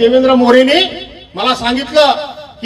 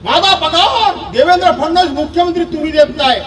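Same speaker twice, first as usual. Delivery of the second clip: mock proud boast. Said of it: "एवढ्या कशाने बोलला".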